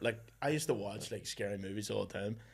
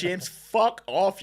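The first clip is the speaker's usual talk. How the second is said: loud, very slow, higher mock yell; mum snapping; 9 semitones higher, 10 dB louder, much slower than usual. Mum tells James off, mock loud and slow. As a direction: bark it like a fed-up mum.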